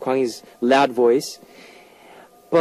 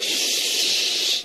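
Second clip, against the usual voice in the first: shushing; 5 dB quieter than usual. Pretend. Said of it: "Just shut".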